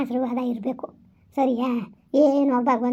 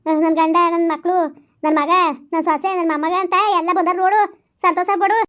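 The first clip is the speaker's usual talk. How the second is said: loud scolding reassurance; firm consoling; 4 semitones higher, 5 dB louder than usual. Acted. Grandmother loudly telling the weeping mother to stop crying.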